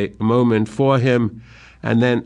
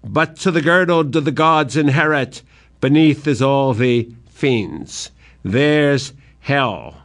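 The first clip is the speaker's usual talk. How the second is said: raised, declaiming cry of revulsion; cries out; 3 semitones higher than usual. Acted. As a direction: cry it out in disgust. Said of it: "He cries out".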